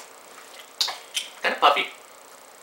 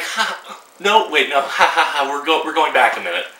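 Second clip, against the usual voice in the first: laughing; 3 semitones higher than usual. Retold or imitated. Retelling laughing in the theater.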